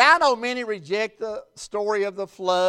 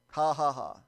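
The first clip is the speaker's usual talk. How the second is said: low, soft mock chuckle; dry, spoken ha-ha-ha; imitated scoffing laugh; 8 semitones lower, 8 dB quieter than usual. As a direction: fake laugh, low and quiet. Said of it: "he kinda laughs at it".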